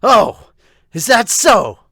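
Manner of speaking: high, loud quick reaction; bright sibling reply. Acted. Voices a lighter, reacting sibling.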